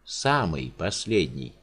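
low, slow and numb; the giant stunned by his fate; dazed giant. Acted. Giant numbly tells the countess he is the last.

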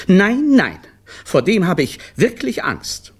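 high, fearful protest; shy away from the big boss; anxious clown. A narrator's reading. Clown tells his wife he fears the director, high and anxious.

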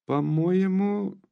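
almost shouting. A narrator's reading. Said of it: "вдруг закричала почти Наташа".

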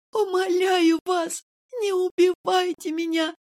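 high, slow tearful plea; choking on tears. A narrator's reading. Nurse pleading with Kirill, choking on tears. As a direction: beg through sobs. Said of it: "давясь слезами".

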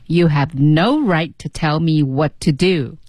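slow read with weight on "no", "right", "do"; stresses on "no right", "do". Shown as a demonstration. Co-host practises the stresses just taught, stressing "no right" and "do". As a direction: hit "no right" and finish firmly on "do". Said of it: "do也会有 重音".

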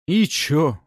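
громко и насмешливо, выше; бросить с презрительной усмешкой; усмешливо. A narrator's reading. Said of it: "усмехнулся тот". (бандит насмешливо отвечает приятелю)

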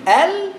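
ال said long and slow with the tongue out; drawn out al. Shown as a demonstration. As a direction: stretch out ال slowly with the tongue tip forward. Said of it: "قول ال". (ال ممدودة ببطء واللسان بره)

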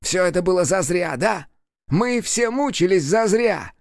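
high, slow furious cry; demon yelling. A narrator's reading. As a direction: hammer every зазря. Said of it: "вновь заорал он".

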